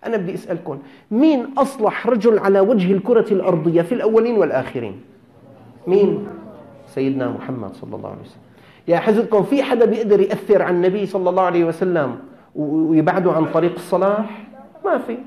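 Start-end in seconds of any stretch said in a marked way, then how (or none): 1.1-6.3 loud, high preacher's challenge to the crowd; rousing question. Real, not acted. Preacher challenges the young men, loud and raised. 8.9-15.2 loud, raised preaching voice; fiery preaching. Real, not acted. Preacher presses the youths, loud and fervent. Preacher pushes his point.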